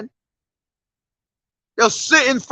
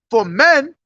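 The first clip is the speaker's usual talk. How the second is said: scripture reading; 2 semitones higher than usual. Real, not acted. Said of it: "I'm gonna read Second Timothy".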